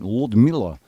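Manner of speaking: Ludmilla said lightly in a Russian accent; a hint of Russian accent on Ludmilla. Shown as a demonstration. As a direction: give Ludmilla a gentle Russian lilt. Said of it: "when you say it with a Russian accent".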